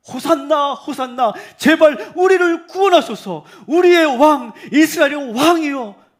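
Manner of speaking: very loud, high, slow crowd cry; full-voiced, high acclamation. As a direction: belt it out as a defiant crowd would. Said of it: "더 큰 소리를 지릅니다".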